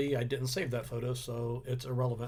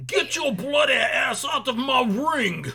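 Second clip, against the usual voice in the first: Drew McIntyre; 11 semitones higher, 8 dB louder than usual. Acted. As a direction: bellow a threat in a hammed-up Scottish accent. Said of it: "if I was Drew McIntyre".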